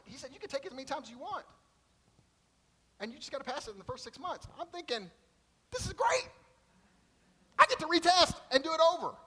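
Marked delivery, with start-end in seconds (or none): 0.3-4.5 high, easygoing clerk telling him to relax; laid-back desk clerk. Retold or imitated. Clerk at the exam desk calming the student, in a high, easygoing voice. 5.7-9.2 much higher and louder, thrilled; excited relief. Retold or imitated. Student learning he can retest, with thrilled, high relief.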